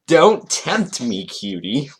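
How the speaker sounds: slow, hammed-up come-on, dropping on "cutie"; mock flirty. Host reading Toon's roleplay line, mock flirty. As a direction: tease it out with mock seduction.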